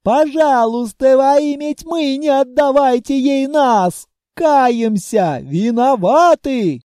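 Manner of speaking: loud, high, slowed begging; desperate pleading. Acted. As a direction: beg for your life. Lizards begging for mercy.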